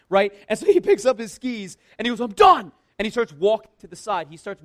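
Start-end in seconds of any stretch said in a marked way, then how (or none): 2.2-2.7 loud, higher outburst imitating a fed-up boy; mock kid's yell. Upset young skier quitting on the slope, mock yelling. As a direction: shout it like a child giving up. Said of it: "he's screaming at the top of his lungs".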